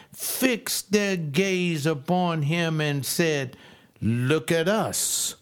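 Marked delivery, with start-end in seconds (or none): 4.0-5.3 slow, deliberate, stressed on "us"; emphatic command. Retold or imitated. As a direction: say "Look at us" as an order, each word weighed. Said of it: "This is in the emphatic".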